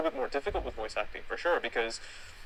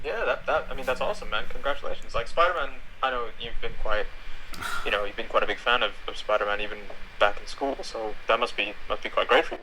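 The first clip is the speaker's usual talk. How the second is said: excited; 5 dB louder than usual. Real, not acted. Congratulates friend on Spider-Man role.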